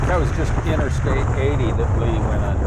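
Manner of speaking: muffled by wind in the mic; talking over rushing wind noise. Real, not acted. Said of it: "wind noise in the microphone".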